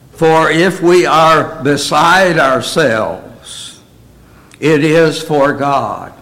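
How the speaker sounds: slow, deliberate Bible reading; scripture reading. Acted. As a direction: read the verse out with weight, unhurried. Reads scripture aloud.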